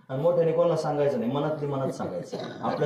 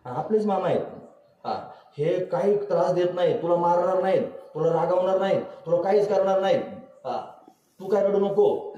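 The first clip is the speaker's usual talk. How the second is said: reassuring; 3 semitones higher than usual. Retold or imitated. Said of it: "समजून सांगितलं".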